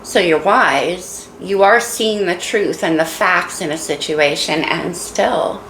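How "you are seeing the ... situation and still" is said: holding back tears a little; choked up. Real, not acted. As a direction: voice catching with emotion. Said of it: "Getting a little choked up".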